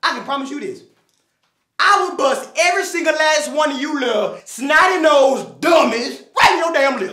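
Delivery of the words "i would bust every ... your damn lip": threatening shout. Acted. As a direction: yell the threat. Threatening the class.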